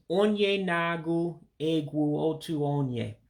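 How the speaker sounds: "onye nagu egwu otu onye" run together at natural speed; natural pace. Shown as a demonstration. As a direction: say it the natural way, flowing. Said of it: "let me say it, more natural".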